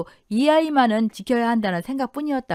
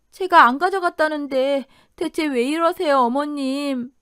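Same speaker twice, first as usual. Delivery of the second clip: distressed plea; 4 semitones higher than usual. Acted. Daughter-in-law pleads innocence while attacked.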